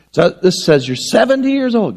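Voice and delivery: put-on little girl. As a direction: say it like a kid reading the card. Girl versus grandma, same words.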